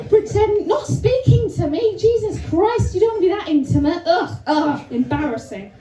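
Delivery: high, appalled protest; mock horror. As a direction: act scandalised and cringing. Mock disgust at intimacy.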